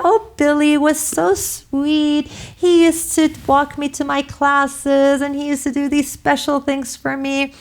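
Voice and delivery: wife reminiscing about Billy, mock giggly schoolgirl; giggling schoolgirl. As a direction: gush like a schoolgirl with a crush, half-playing it. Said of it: "to a giggling schoolgirl".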